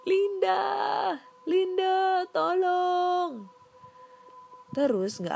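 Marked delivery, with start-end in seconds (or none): 0.1-3.6 high, loud cry of Linda's name; shouting for help. Retold or imitated. Terrified narrator shouting to friend Linda for help. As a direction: yell for help in panic. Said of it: "Sambil teriak-teriak".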